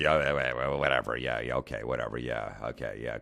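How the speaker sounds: mumbled, sinking string of yeahs; dismissive brush-off. Retold or imitated. Comedian brushing off a nonstop heckler, dismissive.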